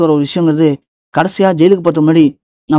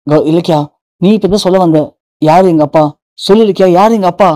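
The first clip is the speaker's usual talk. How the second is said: raised, urgent pushing for the answer; a son pressing his wife to name his father; insistent pressing. Acted. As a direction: corner her, won't let it drop.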